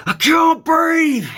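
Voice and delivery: slow, high panicked scream; a drawn-out, desperate cry of panic; inner scream. Retold or imitated. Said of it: "was screaming".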